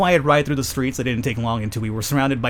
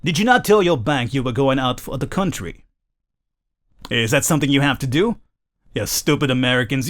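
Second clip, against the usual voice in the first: put-on self-conscious amateur English accent for a cabbie; scolding cabbie in a put-on British accent; attempted British accent. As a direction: have a shaky go at a British accent. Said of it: "me doing a British accent".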